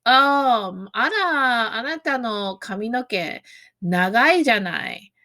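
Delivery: a faintly patronizing comment on their hair; condescending remark. Shown as a demonstration. Teacher demos a patronizing comment on someone's hair, condescending. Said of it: "it can sound condescending".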